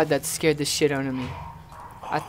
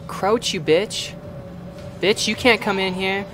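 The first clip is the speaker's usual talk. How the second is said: taunting; 2 semitones higher than usual. Real, not acted. Taunting monster from safety.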